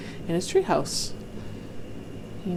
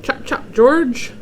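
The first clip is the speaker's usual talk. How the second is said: louder, higher, drawn-out urging; hurrying granddad; 6 semitones higher, 6 dB louder, slower than usual. Acted. Granddad urges George onward in the museum, brisk urging call. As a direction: hurry the child along. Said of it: "said Granddad, saying".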